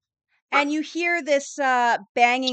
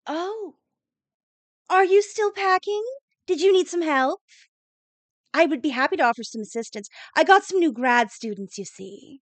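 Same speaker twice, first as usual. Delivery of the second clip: smug rival; 3 semitones higher than usual. Acted. Rival academic leans in offering fake help, mildly smug and sugary. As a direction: lean in and sweetly needle her over packing. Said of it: "somewhat smug-looking woman".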